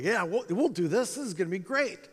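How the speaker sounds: naive mild eagerness, pitch lifted; lightly acted keen yes; eager. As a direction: voice a past self's breezy eagerness. Naively eager past self quoted.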